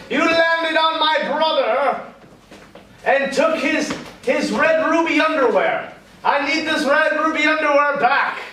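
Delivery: light mock menace, pitched a little high; lightly voiced evil wizard. Evil wizard threatens in story.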